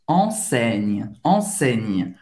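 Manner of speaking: enseigne with ei said as an open e. Shown as a demonstration. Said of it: "E I tem esse som do E".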